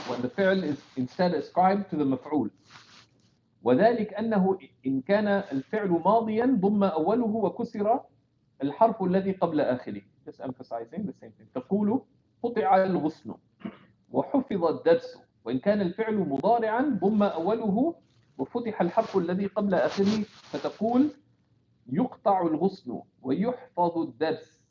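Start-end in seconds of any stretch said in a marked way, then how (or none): 3.6-10.0 brisk, fast recitation of a scholarly text; fast traditional text reading; reading the classical text. Acted. Reads the commentary text aloud. 11.5-24.6 brisk, fast recitation of a scholarly text; fast traditional text reading; reading the classical text. Acted. Reads the commentary text aloud.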